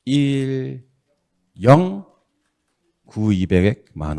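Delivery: calling out each digit as it's keyed; slow, separate digits for the keypad; spelling out the number key by key; slow digit-by-digit typing demo. Shown as a demonstration. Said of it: "어떻게 치냐면요".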